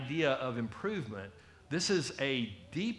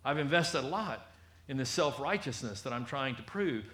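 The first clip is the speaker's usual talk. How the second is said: pompous Pharisee. Retold or imitated. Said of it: "he's like".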